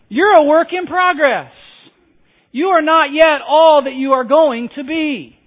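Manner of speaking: a real laugh spilling into the line. Real, not acted. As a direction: say it through a chuckle at the joke. Laughing after the joke.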